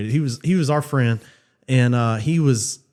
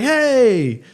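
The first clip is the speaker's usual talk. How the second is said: high, drawn-out answering holler; calling back; 8 semitones higher than usual. Retold or imitated. Friends on the chairlift answer the skier, hollering back. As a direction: imitate a long call back across the slope.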